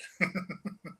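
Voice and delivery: panting like a dog. Shown as a demonstration. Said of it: "Like panting like a dog".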